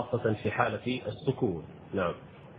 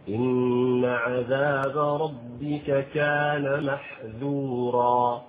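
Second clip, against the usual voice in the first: slow tajwid recitation; slow Quranic chant; much slower than usual. Acted. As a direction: recite the verse slowly with tajwid. Quotes Quran verse.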